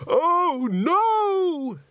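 very high, loud wail; high-pitched drawn-out cry of dismay; scream. A narrator's reading. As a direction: scream it out in horror, stretched long. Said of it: "screamed someone".

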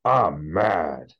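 mock-angry small child, drawn out; hammed-up toddler declaration of anger; Wes. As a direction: imitate a kid dialing up his anger. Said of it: "he's, like, dialing up".

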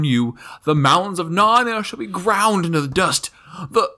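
loud, high-pitched theatrical ranting; shrieked tirade. A narrator's reading. Rabadash curses Aslan as fiend of Narnia, shrieked tirade. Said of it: "shrieked the prince".

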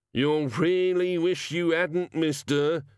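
high, slow gnome plea; pleading. A narrator's reading. Gnome begging the wizard not to open it, pleading. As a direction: plead with him, drawing the words out. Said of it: "the gnome pleaded".

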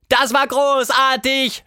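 hohe Mädchenstimme, begeistert und gedehnt; laut und langsam vor Freude rufen; begeisterter Schrei. A narrator's reading. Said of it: "schrie sie". (begeistert hoch gerufen)

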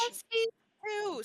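indignant high. Real, not acted. Defending the boy's hair.

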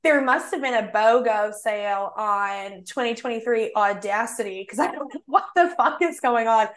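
light Southern accent imitation; a guy's Southern accent lightly put on. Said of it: "a guy did talk in a Southern accent".

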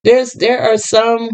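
slipping into a country accent. Real, not acted. Talking about normal black folks, accidental country accent. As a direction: let a country twang creep in. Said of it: "not me pulling out my country accent".

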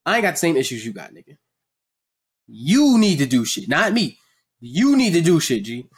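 quick, dismissive retort; E A pushing back. Retold or imitated. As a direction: brush him off fast. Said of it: "I'd be like".

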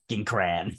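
crayon cut down to "cran"; one-syllable crayon. Shown as a demonstration. Fed up with the long version, one-syllable crayon "cran". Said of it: "takes way too goddamn long to say".

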